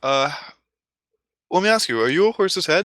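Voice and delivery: high-pitched clown patter; circus clown. Retold or imitated. Clown questioning Billy before the crowd, showy. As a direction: play a clown setting up a gag. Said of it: "And the clown goes".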